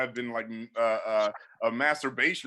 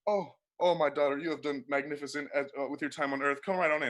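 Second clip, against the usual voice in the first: gentle Jesus. Acted. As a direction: welcome each soul gently at the gate. Jesus welcoming next person.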